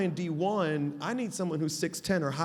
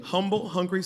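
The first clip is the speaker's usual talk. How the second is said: clearer, firmer repeat on request; slower repeat; 3 semitones higher, 6 dB louder than usual. Shown as a demonstration. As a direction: say it again more deliberately, a little louder. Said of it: "those first two again slowly".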